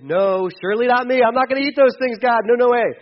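playful hammed-up no way; indignant refusal. Peter refusing God's command to eat, mock-indignant and loud.

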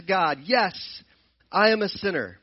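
earnest confession. Acted. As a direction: confess to God from the heart, slowly. Voicing a prayer of confession.

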